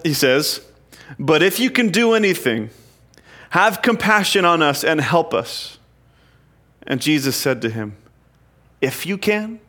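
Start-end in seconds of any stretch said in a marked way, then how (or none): 1.2-5.8 pleading father. Acted. 8.8-9.6 indignant. Acted. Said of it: "Jesus gets pretty fired up".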